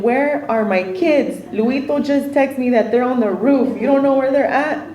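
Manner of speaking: mildly frantic retelling; retold freak-out. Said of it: "I freak out over everything".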